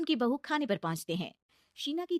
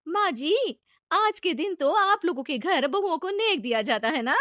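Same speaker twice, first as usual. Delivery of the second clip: high sweet request; 7 semitones higher, 7 dB louder than usual. Acted. Bride asks sweetly.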